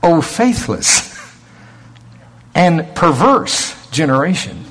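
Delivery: slow, stern rebuke with some temper; drawn-out rebuke, heavy with temper. Shown as a demonstration. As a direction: thunder it out slowly like an angry Jesus. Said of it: "I don't think he said".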